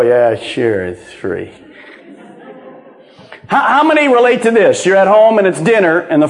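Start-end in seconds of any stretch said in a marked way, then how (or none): 0.0-1.5 sarcastic disbelief. Retold or imitated. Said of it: "you hear the word free and you go".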